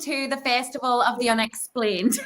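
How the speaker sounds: shaky-footed attempt at an American accent, drifting toward Irish; forced American accent. Shown as a demonstration. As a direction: try a Southern American welcome, not quite landing it. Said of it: "Your best American accent".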